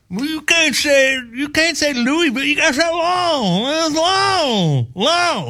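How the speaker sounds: high, slow drawled voice correcting the outsider; local correcting. Retold or imitated. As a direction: correct him like a smug local. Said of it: "Like that guy just corrected him".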